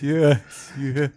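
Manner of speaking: halting, stuck attempt at apology; the Fonz. Co-host as TV greaser unable to apologize, mock struggle.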